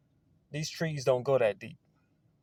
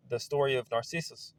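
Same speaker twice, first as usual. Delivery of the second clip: odd accent, long ee in "Narcissus"; accidental weird accent on "Narcissus"; 5 dB quieter than usual. Real, not acted. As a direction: say "Narcissus" as nar-SEE-sus in an odd accent. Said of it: "do that fucking weird accent".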